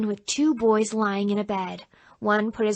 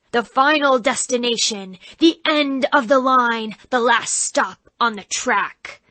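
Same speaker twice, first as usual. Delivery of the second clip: doomed-souls devil; 2 semitones higher, 4 dB louder than usual. Acted. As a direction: intone like a haunted-house devil. Devil actor continues speech.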